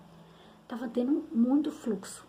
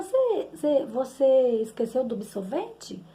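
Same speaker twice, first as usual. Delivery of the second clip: imitating daughter's halting speech; much slower than usual. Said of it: "ela tem problema na fala".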